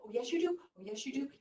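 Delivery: high, soft little rabbit voice; a hint of a wheedling rabbit; coaxing Rabbit. Rabbit coaxes Eagle into believing.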